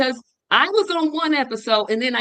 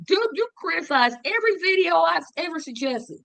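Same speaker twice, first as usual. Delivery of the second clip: retold complaint; 8 semitones higher than usual.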